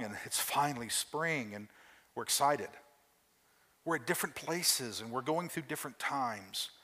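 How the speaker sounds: gentle, earnest prayer to God; closing prayer. Acted.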